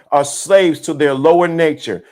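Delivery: usual speaking voice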